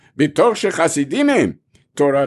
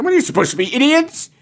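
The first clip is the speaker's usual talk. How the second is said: retold yell; 8 semitones higher than usual. Official berating the chassid.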